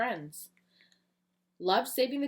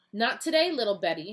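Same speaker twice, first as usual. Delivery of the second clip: heroic taunt; 5 dB louder than usual. Acted. Eagle Boy taunting the giant chicken, loud. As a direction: call out the chicken like a hero. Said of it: "he said to her".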